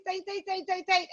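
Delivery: high-pitched, quick repeated squeeze cue; tense it up as you chant; squeezing tight. Shown as a demonstration. Teacher leading kids to clench their muscles, squeezing tight.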